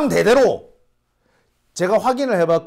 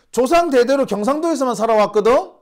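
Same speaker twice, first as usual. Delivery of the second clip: heated, higher and louder, rising at the end; indignant; 6 semitones higher, 4 dB louder than usual. Real, not acted. Protesting his Gyeongsang roots to viewers, heated. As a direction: press the point, exasperated. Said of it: "진짜 열받아요".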